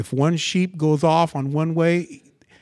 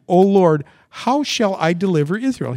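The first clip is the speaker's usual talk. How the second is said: loud, high-pitched protest; Gideon's objection; 5 semitones higher, 7 dB louder than usual. Acted. Gideon answering God's order, loud raised objection. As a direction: plead the impossibility at raised volume. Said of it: "He said to him".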